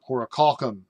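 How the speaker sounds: "horacalcum" with open ah, as hora-KAHL-kum; second alternative pronunciation. Shown as a demonstration. Reader still trying the name, "horacalcum" as hora-KAHL-kum. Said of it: "I'm gonna call it horacalcum".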